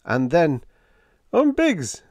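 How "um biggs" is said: high, hollow wail; ghostly wail. A narrator's reading. Impossible visitor wailing before vanishing. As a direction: wail it like a lost phantom. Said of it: "wailed our impossible visitor".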